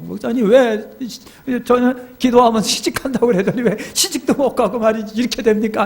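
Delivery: high, whiny mock sobbing protest; tearful complaint. Single woman blaming her pastor over marriage, mock tearful. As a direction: imitate crying while complaining on the phone. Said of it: "막 전화를 우는데".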